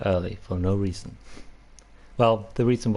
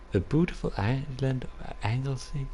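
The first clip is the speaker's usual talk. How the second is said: Welsh accent attempt; 5 semitones higher, 4 dB quieter than usual. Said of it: "learn how to say".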